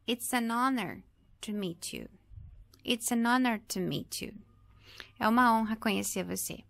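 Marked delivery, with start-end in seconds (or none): 0.1-4.3 "honor" with no H, following straight on from "an"; silent H. Shown as a demonstration. Teacher gives example sentence, silent H in "honor". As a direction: link "an" into the vowel of "honor", H unsounded. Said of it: "o H não está na transcrição".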